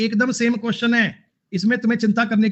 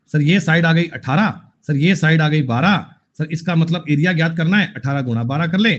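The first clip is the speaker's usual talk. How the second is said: mimicking a student; 3 semitones lower than usual. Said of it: "ऐसे एक्स ने याद कर लिया".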